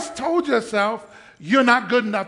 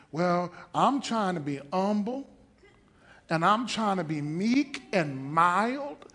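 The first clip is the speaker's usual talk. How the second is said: mock humble. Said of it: "You better quit talking like that".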